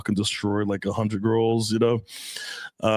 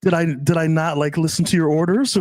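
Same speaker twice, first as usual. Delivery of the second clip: higher-pitched, lightly imitated girlfriend; guessing girlfriend; 4 semitones higher than usual. Girlfriend guessing what she did wrong, lightly imitated. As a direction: voice her tentative guess, pitched up. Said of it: "and she's guessing".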